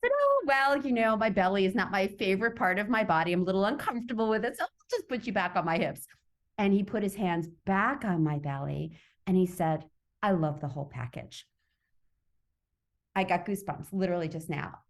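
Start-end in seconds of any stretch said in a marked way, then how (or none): 0.1-6.1 breezy joking deflection. Retold or imitated. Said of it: "I made a joke of it". 10.2-11.5 low, gentle declaration; tender reassurance. Retold or imitated. Retelling the man's tender reply.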